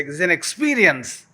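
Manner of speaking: experience lifted and ending in a fall; modelled recital. Shown as a demonstration. Speaker showing the class how to say the line, lifted. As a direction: sing it out like a verse. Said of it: "Say it to, like this".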